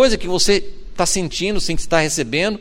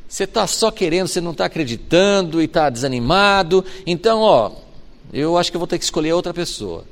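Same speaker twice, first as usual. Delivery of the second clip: mock impatient God. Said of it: "Deus não falou".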